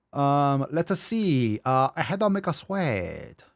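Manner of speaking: mock Asian accent, drawing out the name; funny Asian voice. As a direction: read haltingly in a jokey Asian accent. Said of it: "doing the funny Asian voice".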